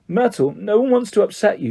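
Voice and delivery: calm someone who is upset; soothing. A narrator's reading. Hermione to tearful Myrtle, soothing.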